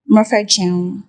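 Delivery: Yoruba spoken haltingly in a foreigner's accent; mock foreign-accented Yoruba. Shown as a demonstration. Showing a co-host how Yoruba sounds without the accent, mock foreign accent. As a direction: demonstrate badly accented Yoruba. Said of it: "how the language is supposed to sound".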